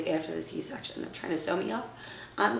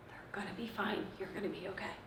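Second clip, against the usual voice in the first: hushed, gentle comfort; retold soothing words, half-whispered; soft reassurance; 12 dB quieter, faster than usual. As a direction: whisper it to calm her. Nurse soothing her, quoted softly.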